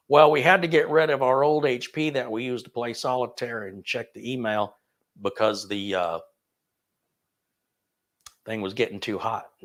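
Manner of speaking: light Southern drawl as a customer; lightly voiced Southern customer telling the story. Customer retelling why they ditched the old HP, mild Southern drawl. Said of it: "I don't know why I went into a Southern drawl".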